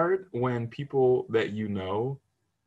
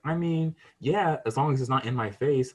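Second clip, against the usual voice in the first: grudging relative; 5 semitones higher than usual. Retold or imitated. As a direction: drag it out like a reluctant relative. Mimics relative.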